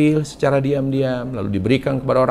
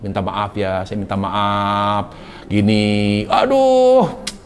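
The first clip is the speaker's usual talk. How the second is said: sweet apology; 5 semitones lower, slower than usual. Retold or imitated. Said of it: "ngomong tuh yang enak gitu loh".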